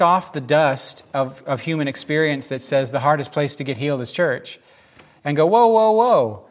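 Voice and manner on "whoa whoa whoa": high, loud, drawn-out objection; calling a halt. Acted. Preacher halts an old saying about church, calling out. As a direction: stop them in their tracks.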